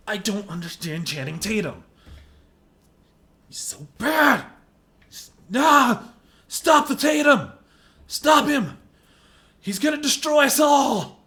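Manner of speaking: hammed-up wail, high and loud; mock crying rant. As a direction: fake despair, a half-sob.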